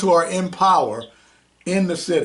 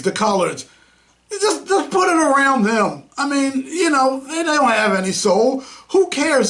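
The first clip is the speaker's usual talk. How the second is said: sneering mock voice of those in power, pitched higher; mocking officials; 5 semitones higher than usual. Host mocking city officials, in a sneering higher voice. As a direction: voice the callous mindset with contempt.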